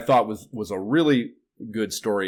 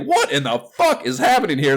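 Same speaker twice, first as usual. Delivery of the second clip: raised, louder mock bafflement; incredulous outburst; 5 semitones higher, 5 dB louder than usual. Reader retelling his reaction to co-host, amused and incredulous. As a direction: replay your disbelief with a laugh in it. Repeats own shocked reaction.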